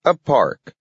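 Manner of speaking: put-on high old-timer voice; proud old man announcing. A narrator's reading.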